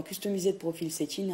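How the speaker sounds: English words in a French accent; clumsy English, said with a French accent. Real, not acted. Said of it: "excusez-moi pour mon accent anglais".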